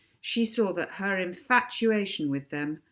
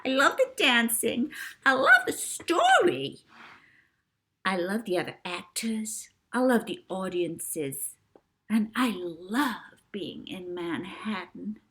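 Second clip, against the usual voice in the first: put-on gushing child star. A narrator's reading.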